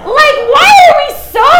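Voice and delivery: high, loud and slow, half laughing; excited shouted insistence, still laughing. Real, not acted. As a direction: push through the laugh to make the point.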